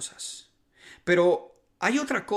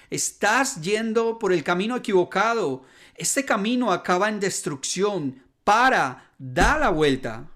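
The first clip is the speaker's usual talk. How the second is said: raised voice, mildly shouted, peaking on "Para"; imitated shouted warning; 3 semitones higher, 4 dB louder than usual. Jesus warning people off the wrong road, mildly shouted. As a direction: give a restrained mock shout of warning. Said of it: "Jesús grita la misma advertencia".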